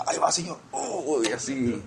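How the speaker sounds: a hint of pleased offering; happy crown-tosser. Acting believers with big crowns offering them to the Lord, mildly happy. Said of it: "bien contentos".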